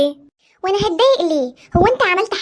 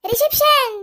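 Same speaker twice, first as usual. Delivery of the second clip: shocked; 10 semitones higher, 3 dB quieter, slower than usual. Acted. Groom shocked by demands.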